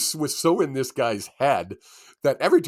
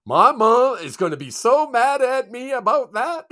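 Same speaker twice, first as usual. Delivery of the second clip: put-on high, louder sheepish kid voice; imitating the kid; 11 semitones higher, 6 dB louder than usual. Player answering the reporter about his fumble, high sheepish imitation. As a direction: play the guilty kid fearing his mom. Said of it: "the kid looks at him and goes".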